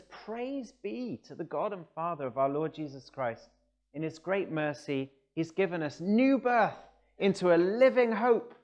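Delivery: building to a loud, high proclamation; scripture declaimed from the pulpit, swelling to the end; exultant scripture quote. Acted. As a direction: proclaim it with rising praise. Reads Peter's praise, building up.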